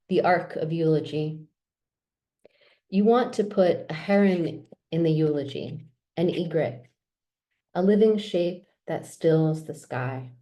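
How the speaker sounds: measured poetry reading with pauses between phrases. Acted. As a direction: read the poem aloud, line by measured line. Reads own poems aloud.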